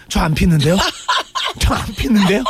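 playing the innocent, not smoking; mock innocent denial to a teacher; innocent student act. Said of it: "묻지도 않았는데".

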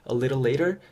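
"a little later" with both Ts as quick flaps; flapped T. Shown as a demonstration. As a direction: say "a little later" like "a liddle lader". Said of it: "요렇게 발음해 주시면은". ("a little later"의 T를 부드럽게 굴려서)

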